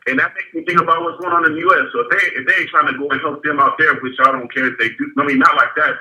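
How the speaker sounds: echoing off bathroom tiles; echoey bathroom. Real, not acted. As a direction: sounds like in a small bathroom. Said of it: "It sounds real echoey in there".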